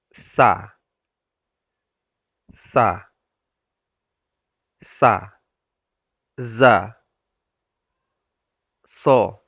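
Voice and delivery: loud clear letters, each set apart; letter sounds demo. Shown as a demonstration. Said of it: "Bisa dirasakan ya". (mengucapkan huruf satu per satu dengan tegas)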